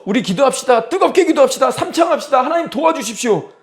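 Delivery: high, urgent rallying call to prayer; imitated fervent plea; fervent prayer leader. Mimics fervent calls to prayer.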